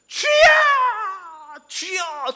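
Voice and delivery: high, loud cry of Lord; loud prayer cry at a prayer retreat; crying out to God. Retold or imitated. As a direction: shout it out in prayer. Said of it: "소리 지르잖아요".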